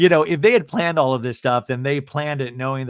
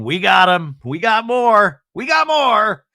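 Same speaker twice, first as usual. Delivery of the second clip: loud, high cheer climbing with each phrase; mock triumphant shout; 8 semitones higher, 8 dB louder, slower than usual. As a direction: cheer like agents who just caught their man. Acting out gleeful FBI watchers.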